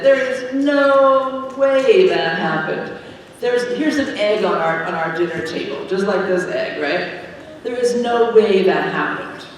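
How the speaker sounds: the emperor laughing off Mary's claim, scornful; scoffing emperor. Acted. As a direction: sneer at her story like a mocking emperor.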